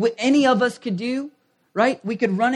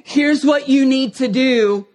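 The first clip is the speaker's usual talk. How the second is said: higher, louder, urging fatherly voice; voicing God as coach; 3 semitones higher, 4 dB louder than usual. God urging people to do their part, higher earnest plea. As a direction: plead like a coach who can't play for them. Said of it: "God look at our lives and ... go".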